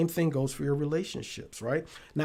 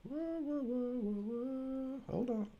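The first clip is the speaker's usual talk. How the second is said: startled whoa; 8 semitones higher, 11 dB quieter than usual. Real, not acted. Audio feedback surprises him.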